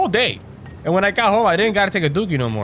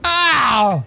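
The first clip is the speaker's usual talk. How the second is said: yelp; 7 semitones higher, 4 dB louder than usual. Real, not acted. Sudden yelp while playing.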